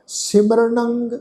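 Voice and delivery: slow, drawn-out sacred recitation; scripture recitation. Shown as a demonstration. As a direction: recite slowly, holding the long vowels. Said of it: "ਪਾਠ ਉਚਾਰਨ ਕਰਦੇ ਹਾਂ ਜੀ".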